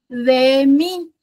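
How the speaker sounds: "De mi" sounded out as two long, separate syllables; stress on DE. Shown as a demonstration. Teacher scanning a trochaic line, sounding out "De mi" by syllable. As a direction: spell out the beat of "De mi", DE as the strong one. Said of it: "Todos ellos tengo lo mismo".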